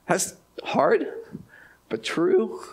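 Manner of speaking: hushed, breathy whisper; whispered aside. Real, not acted. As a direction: let it fall into a whisper.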